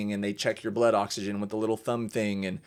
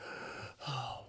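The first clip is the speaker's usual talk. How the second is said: imitated gasp; 3 semitones higher, 16 dB quieter than usual. Imitates Raven struggling to breathe.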